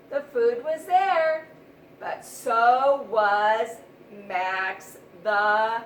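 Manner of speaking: loud, slow suspense build-up; slow down and lean on it, the danger is coming; dramatic reveal. A narrator's reading. Dramatic build-up before the cat.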